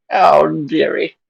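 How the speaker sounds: put-on high, loud old lady voice; generic old woman. Shown as a demonstration. Showing friends the stock old woman voice, high and loud. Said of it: "my generic old woman voice".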